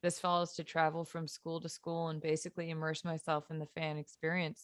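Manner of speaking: hoarse, raspy voice from yelling; smoker's rasp. Real, not acted. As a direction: rasp through every word. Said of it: "if I sound like I've been smoking packs of cigarettes for forty years".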